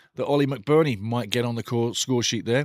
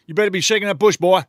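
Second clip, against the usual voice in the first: higher, louder threatening guard; mock prison boss; 6 semitones higher, 7 dB louder, faster than usual. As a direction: menace the convict in a hammed-up way. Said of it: "Cool Hand Luke?".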